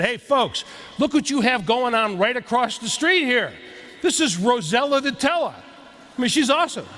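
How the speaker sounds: put-on light Boston accent, playful. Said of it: "That's, that's my best Boston accent".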